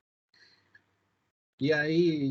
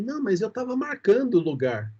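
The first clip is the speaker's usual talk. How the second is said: mock-indignant protest, pitched up; retold irritation; 7 semitones higher, 5 dB louder than usual. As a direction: imitate an irritated driver, higher and louder. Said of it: "a pessoa ficou irritada comigo". (irritação imitada, em tom mais alto)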